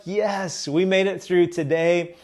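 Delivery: upbeat, reassuring insistence; encouraging. Retold or imitated. Husband lifting his wife's spirits after first day, encouraging. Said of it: "trying to kind of lift the spirits up".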